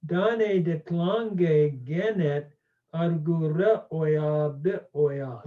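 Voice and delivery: slow, careful read-aloud of the Homeric Greek; slow measured reading, not in hexameter. Shown as a demonstration. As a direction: read each Greek word slowly and clearly. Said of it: "I'll just read it slowly".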